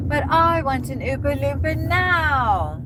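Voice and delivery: high, slow, spoiled whine; Veruca Salt. Retold or imitated. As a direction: demand it like a bratty child.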